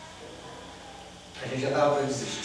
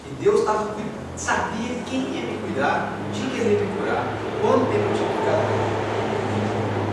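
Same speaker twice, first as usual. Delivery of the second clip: fervent testimony; 8 semitones higher, 4 dB louder, slower than usual. Real, not acted. Testifying emotionally about God.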